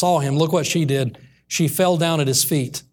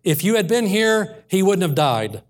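higher-pitched demand, falling at the end; 3 semitones higher than usual. Retold or imitated. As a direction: confront him, pitched up on the first half. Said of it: "demanded answers".

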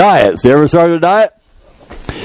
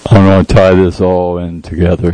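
slower, more measured repeat; deliberate, spaced-out delivery; saying it slower; 5 semitones lower than usual. Shown as a demonstration. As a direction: take your time over each word. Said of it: "She told me to say it slower".

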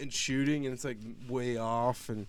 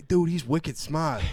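impressed dudebro; 6 semitones higher, 6 dB louder, slower than usual. Retold or imitated. Students praising main character.

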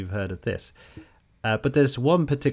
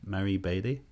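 Marie Bailey with a French accent, P for B; saying Marie Bailey the French way; 3 dB quieter than usual. Shown as a demonstration. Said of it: "Is that my French accent?".

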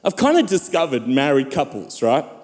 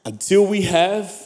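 emphatic sermon delivery with weighty pauses; impassioned preaching; 3 semitones higher than usual. Real, not acted. Preacher proclaims God's grace to the church, impassioned preaching. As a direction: preach with rising, swelling cries and hushed drops.

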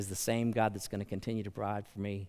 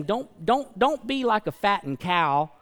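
urgent warning; 8 semitones higher, 7 dB louder than usual. Retold or imitated. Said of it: "He's saying".

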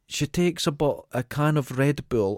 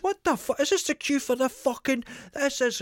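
much higher, mock outraged builder yelling; angry builder; 13 semitones higher than usual. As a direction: squawk it like an irate lad in a queue. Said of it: "and he starts shouting".

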